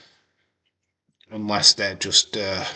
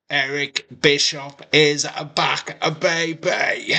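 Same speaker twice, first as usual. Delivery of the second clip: excited shout; 4 semitones higher than usual. Real, not acted. Celebrating Bischoff's return.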